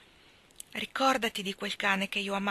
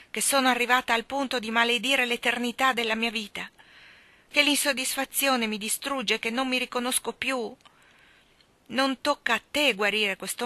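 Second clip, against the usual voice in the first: fairy despairing; 4 dB louder than usual. Acted.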